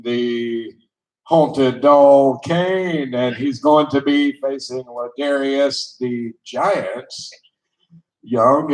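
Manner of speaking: slow, drawn-out ring introduction; wrestling commentator. Pretend. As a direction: announce the fighters like a ring announcer. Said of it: "in your best voice, set this match up".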